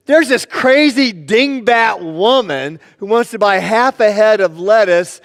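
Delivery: retold griping about an oddball customer; mock exasperation. Young clerk tells the owner about a lettuce customer, mock exasperated.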